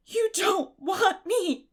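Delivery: slow, high, loud anguished cry. Acted. Orphan girl realising she's unwanted, anguished cry. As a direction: wail it out in disbelief. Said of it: "she cried".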